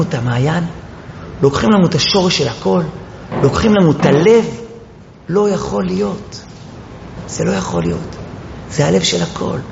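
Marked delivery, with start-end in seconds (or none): 5.3-9.6 softer, near-whispered disbelief; hushed grief. Acted. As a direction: let it drop to a broken hush. Grief-stricken climax of the lament. (לחישה שבורה של צער)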